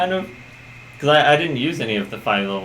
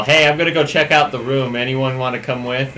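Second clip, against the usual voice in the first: yelling down the hall; 5 dB louder than usual. Acted. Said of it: "I'm just gonna yell down the hall".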